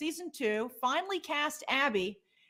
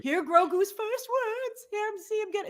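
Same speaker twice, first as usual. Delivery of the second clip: mock promo voice; 8 semitones higher than usual. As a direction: sell it like a movie trailer. Voicing an imagined movie promo tagline.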